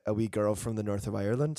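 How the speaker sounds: playful Northern Irish lilt; put-on Irish accent. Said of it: "I'm not gonna do this accent".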